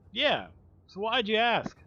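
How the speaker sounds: retold sly challenge to the coworker; pointed question. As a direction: ask it like you already know. Confronting coworker with his question.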